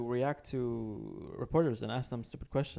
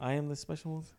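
Mourinho impression; 3 dB quieter than usual. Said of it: "really bad impression".

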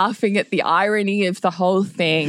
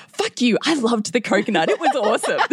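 higher-pitched mock outrage; indignant comeback; 5 semitones higher than usual. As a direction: protest as if privately offended. Silent angry comeback acted out.

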